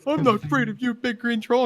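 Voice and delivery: defiant applicant. Retold or imitated. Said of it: "applicant answering the troll".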